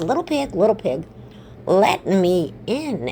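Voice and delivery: lightly voiced storybook wolf, drawn-out plea; a hint of a coaxing wolf; wolf at the door.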